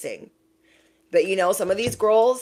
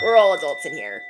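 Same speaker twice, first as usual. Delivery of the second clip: louder, firm "We're all adults in here"; emphatic; 5 dB louder than usual. Shown as a demonstration. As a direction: declare it firmly.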